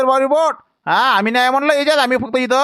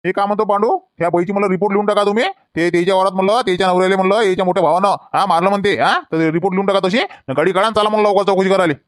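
a lower-voiced officer telling constables what to do; police inspector; 4 semitones lower than usual. Inspector ordering constables to file the report, lower voice.

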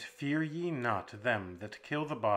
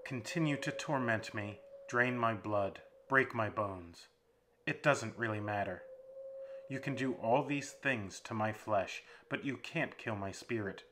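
louder, firm defiance building; new conviction; 4 dB louder than usual. Acted. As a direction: stand firm against your tormentor. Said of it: "with a new conviction in his voice".

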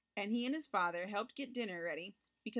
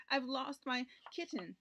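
put-on slow, higher lament of a child; mild acted sob; 4 semitones higher than usual. Boy telling father his kitten is lost, mildly sobbing. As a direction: drag it out, lightly tearful. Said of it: "sobbed Richard".

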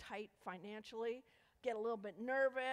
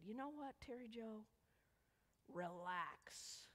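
calming friend; 6 dB quieter, slower than usual. Retold or imitated. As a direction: gently talk an uptight friend down. Friend calming the uptight speaker.

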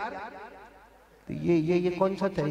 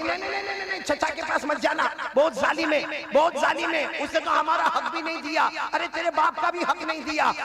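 frightened mother; 9 semitones higher than usual. Acted. Frightened mother warns her son.

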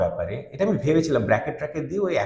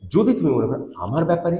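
grieved intonation; 4 semitones higher than usual. Shown as a demonstration. Teacher showing the sad reading of the verse, mildly grieved. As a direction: let the hurt show in the line. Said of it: "কিন্তু এখানে".

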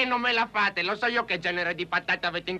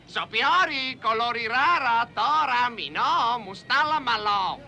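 fake Arabic; 3 dB louder, slower than usual. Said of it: "Vediamo cosa gli ho detto".

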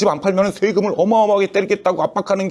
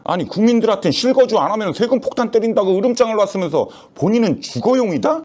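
ordinary talk

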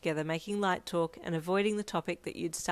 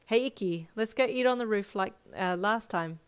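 bright, lightly raised voice; 3 semitones higher, 3 dB louder than usual. Acted. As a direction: say it brightly to a friend. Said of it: "he said brightly".

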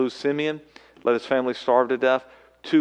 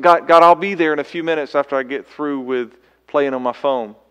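mock lazy reply; 3 semitones higher, 9 dB louder than usual.

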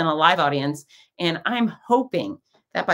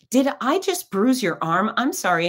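concerned apology; 7 semitones higher than usual. Retold or imitated. Choreographer alarmed at bruise, retold.

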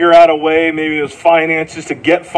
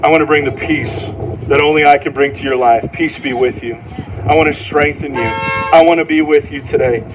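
gentle Jesus voice; 3 semitones lower than usual. Acted. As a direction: speak it as a calm, tender promise. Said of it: "And Jesus would say to you".

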